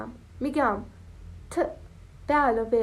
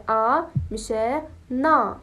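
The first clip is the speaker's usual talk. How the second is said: slow demo; 3 dB louder, slower than usual. Shown as a demonstration.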